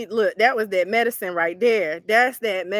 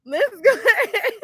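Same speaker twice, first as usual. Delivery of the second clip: ordinary talk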